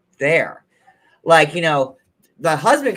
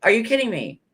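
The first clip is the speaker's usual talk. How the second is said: fed-up outburst; 7 semitones higher, 4 dB louder than usual. Retold or imitated. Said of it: "and Christine's like".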